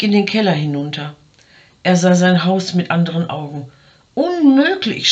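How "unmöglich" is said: much higher, alarmed shout. A narrator's reading. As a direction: shriek the word in horror. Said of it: "schrie er". (entsetzter, hoher Aufschrei)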